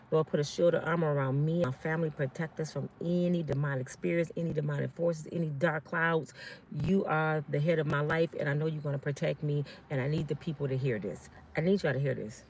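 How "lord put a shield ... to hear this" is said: soft, low-key protective prayer. Real, not acted. Woman asking the Lord to shield her family, soft prayer. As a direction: pray quietly and steadily for protection.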